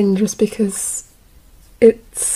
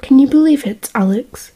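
plummy posh character read; 2 semitones higher, 4 dB louder than usual. Acted. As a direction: read it a bit too posh. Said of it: "Why do I sound posh?".

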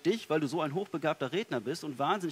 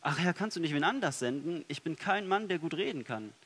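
louder, higher plea, half-acted refusal; imitating a frightened young man begging off the task; mock cry of protest; 3 semitones higher, 3 dB louder than usual. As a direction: cry out a hammed-up no to God. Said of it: "ich hätte sofort Nein geschrien".

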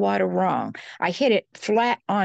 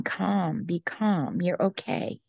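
soft, soothing reassurance; most peaceful voice; 4 dB quieter, slower than usual. Retold or imitated. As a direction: murmur it gently to calm a frightened child. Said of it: "in the most peaceful voice".

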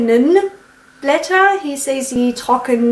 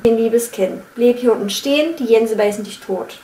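Berlin accent. Shown as a demonstration. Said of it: "I'm gonna try again".

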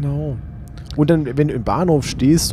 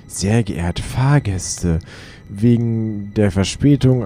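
train announcement voice; much slower than usual. Retold or imitated. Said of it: "da gibt's auch immer diese Meldungen".

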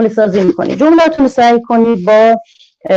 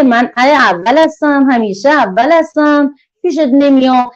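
a lightly voiced, higher, boastful little letter; proud letter character; 6 semitones higher than usual. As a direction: play the proud first letter who won't come. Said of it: "اول میگه".

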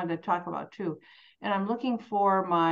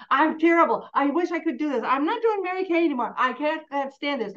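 self-pity rant; 5 semitones higher, 3 dB louder than usual. Retold or imitated. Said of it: "go off on a loose end".

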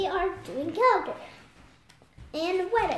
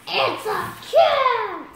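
louder and higher on cat; insistent; 5 semitones higher, 8 dB louder, slower than usual. Real, not acted. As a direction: exclaim it proudly. Child insisting loudly.

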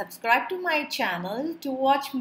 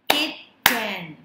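"Kitten" in two separate beats; syllable by syllable. Shown as a demonstration. Teacher leading clapping practice, "Kitten" split in two. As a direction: sound out "Kitten" as kit, ten. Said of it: "identify syllables by clapping".

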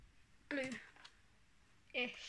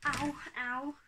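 pained ow; 4 dB louder than usual. Real, not acted. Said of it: "I think I cut myself".

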